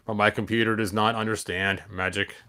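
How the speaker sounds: flat, even mechanical tone; lightly voiced robot. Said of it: "Gotta do the robot voice".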